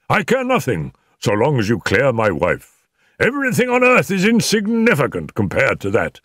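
high-pitched, impassioned insistence; fervent outburst. A narrator's reading. Husband wants his wife cleared, impassioned. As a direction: declare it with agitated fervour.

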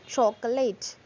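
"chocolate" in three syllables, CHO-co-late; every syllable pronounced. Shown as a demonstration. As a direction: sound the middle O in "chocolate". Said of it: "We won't pronounce all the syllables".

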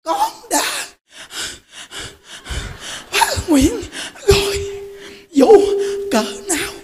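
high, laughing, rising to a shout; a frail old woman swearing she will do it no matter what; old woman's vow. Retold or imitated. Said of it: "bà nói nè".

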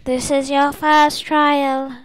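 high, slow intoning; solemn spirit voice. Acted. Game master announcing the first trial, solemn intoning. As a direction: announce it slowly like an oracle.

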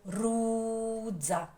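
slow «Кукурудза», long РУ before ДЗА; наголос на РУ. Shown as a demonstration. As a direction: linger on РУ in «Кукурудза». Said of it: "Як ми промовляємо?". (повільно, з довгим наголошеним РУ)

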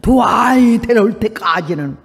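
slow, booming command; thunderous voice of God. Retold or imitated. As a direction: drop it like thunder from above. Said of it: "천둥 병력 같은 소리가". (천둥처럼 울리는 하나님의 명령)

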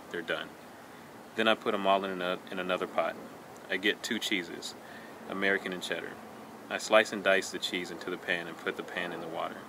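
even, understated reading of a food poem; lightly recited verse, unhurried and controlled. Acted. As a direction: read it line by line, with small pauses. Reads second poem aloud.

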